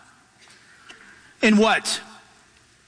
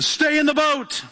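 drawn-out, higher-pitched urging; insistent counseling; 5 semitones higher, slower than usual. Acted. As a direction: slowly press him to stay put, mock advice. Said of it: "eleven guys counseling him".

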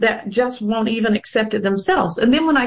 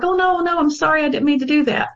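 husband's pleading apology; 7 semitones higher, faster than usual. Retold or imitated. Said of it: "He's like".

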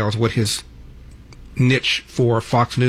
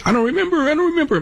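retold Trump mockery, pitched far up; mocking impression; faster than usual. Host retells Trump mocking a journalist, high mocking squeal. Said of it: "mocking the journalist and waving his arms around".

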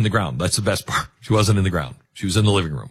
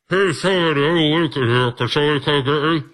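higher, put-on voice calling for help; mock trapped-man plea, pitched up; buried-alive caller; 5 semitones higher, faster than usual. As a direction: call up from inside a coffin. Voicing someone trapped in coffin.

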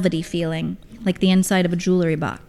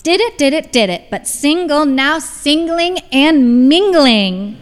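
high, lilting sing-song boast; 7 semitones higher, 5 dB louder, slower than usual. A narrator's reading. Mother checks off her relationship history for the table, sing-song. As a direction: chant it playfully, stretching out the ending. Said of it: "said in a sing-song voice".

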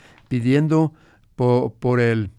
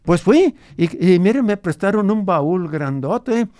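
lightly voiced grandfather, a bit higher; old grandfather; 5 semitones higher, 3 dB louder than usual. Grandfather recalls his ranch for the radio host, lightly voiced old man. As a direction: tell it as the old abuelo remembering his ranch.

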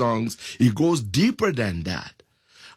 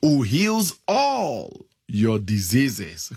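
slow, lifted reading of the verses; slow scripture reading. Acted. Preacher reading God's benefits aloud, slow and lifted. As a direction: let each "Who" clause ring out slowly.

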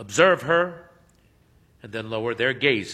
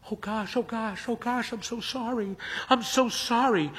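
put-on high, flustered young woman's voice; embarrassed Hermione; 9 semitones higher than usual. A narrator's reading. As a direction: blurt it out in shocked embarrassment. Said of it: "her face reveals her shock and embarrassment".

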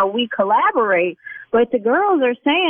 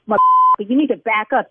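lashing out. Acted. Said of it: "now you're making me lash out".

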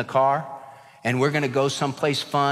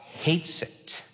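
hushed; 7 dB quieter than usual. Acted. Stressing God's hatred.

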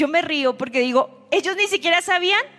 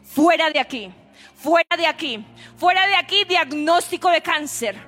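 commanding rebuke. Acted. A preacher commanding sickness and addiction to leave with authority. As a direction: cast it out with authority, each time harder.

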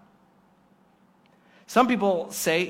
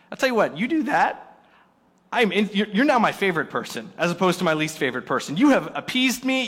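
mock delighted; 4 dB louder than usual. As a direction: ham up being bought off. Appeased pastor gushing over check.

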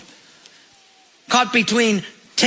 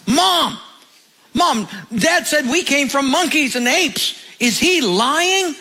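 put-on excited little boy; 6 semitones higher than usual. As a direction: play a worked-up little boy tattling on Dad, stretching the last question slowly. Little boy runs in to mom.

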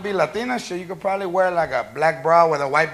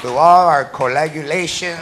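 put-on slow, soft drunk declaration; slurry drunk love vow; drunk romantic; 4 dB quieter, slower than usual. Drunk love speech to girlfriend.

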